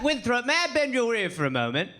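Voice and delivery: lightly put-on stuffy British gentleman; a hint of old colonial British; old dusty gentleman. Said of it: "two old dusty white dudes".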